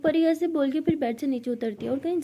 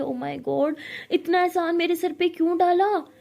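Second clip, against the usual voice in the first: mock her favour; sarcastic taunt. Pari taunts Ishani. (तंज़ कसते हुए)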